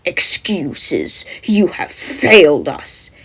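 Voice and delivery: menacing. Acted. Villain rebukes Mineta.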